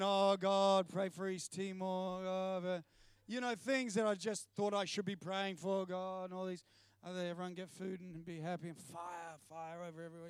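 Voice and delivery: droning mock prayer on one tone. Man retelling his dutiful prayer to God, mock pious. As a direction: rattle off a rote prayer, half-hearted.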